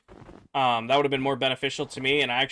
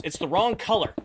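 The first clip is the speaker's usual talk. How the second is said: higher-pitched mock complaint; livid; 5 semitones higher than usual. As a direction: imitate an irate customer objecting. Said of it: "She's livid. She's pissed".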